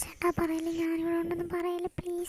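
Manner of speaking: voiceless, very soft plea; frightened whisper. Acted. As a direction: beg without being heard. Hiding girl begs in whisper. (ഒളിച്ചിരുന്ന് പേടിയോടെ മന്ത്രിക്കുന്നു)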